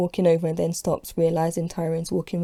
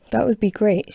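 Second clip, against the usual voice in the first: enthusiastic; 3 semitones higher, 4 dB louder than usual. Acted. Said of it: "she smiles with enthusiasm".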